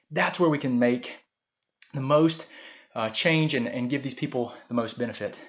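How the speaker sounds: gasping for air mid-sentence; breathless, struggling for oxygen; out of breath. Real, not acted. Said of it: "Sorry I'm so out of breath".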